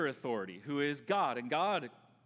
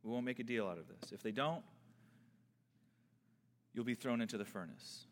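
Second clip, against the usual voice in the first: king's threat; 6 semitones lower, 4 dB quieter than usual. Retold or imitated. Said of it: "He restates".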